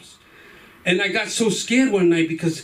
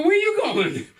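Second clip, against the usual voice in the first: put-on alarmed kid; 12 semitones higher than usual. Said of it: "I go".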